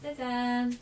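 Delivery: soft, high little reveal; playful ta-da. Pretend. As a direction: present a surprise playfully. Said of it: "기대해주세요".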